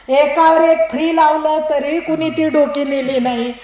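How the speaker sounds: ordinary delivery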